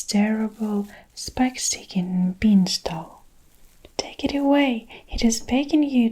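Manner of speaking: a terrified giant pleading, hushed; whispered scream. Acted. Giant pleading with Jack for mercy, whispered scream. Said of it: "screamed the Flesh Lump Eater".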